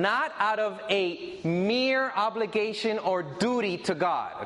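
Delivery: "mere" drawn out and leaned on; stress on mere. Shown as a demonstration. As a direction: put clear emphasis on the word "mere". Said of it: "my emphasis on something".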